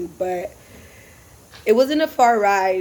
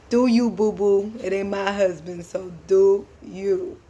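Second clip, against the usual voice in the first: sassy. Retold or imitated. Driver sasses cheating couple.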